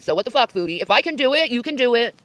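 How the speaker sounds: mocking challenge. Real, not acted. Clip, the speaker goading, pitch up.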